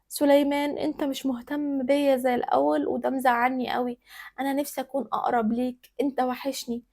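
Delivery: soft, calm plea to a husband; quiet, even and gently reproachful; complaining without complaining. Acted. Hiyam gently appealing to Suleiman, calm and soft. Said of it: "كانت دايمًا بتشتكي من غير ما تشتكي".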